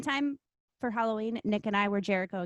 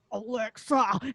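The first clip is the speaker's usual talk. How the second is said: mouth full of nuggets; much slower than usual. Retold or imitated. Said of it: "I put a bunch of chicken nuggets in my mouth".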